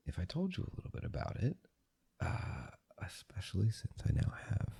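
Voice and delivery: breathy close-mic whisper. Real, not acted. Whispered vlog throughout.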